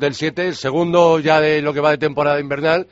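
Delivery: stuffy nose from a cold; blocked-nose nasal voice. Real, not acted. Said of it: "se nota la voz gangosa".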